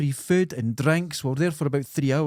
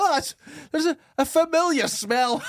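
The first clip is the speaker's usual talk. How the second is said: calling out; 13 semitones higher than usual. Acted. Explorer in the cave to the lads, acted calling out. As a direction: call it high, playing a wary explorer.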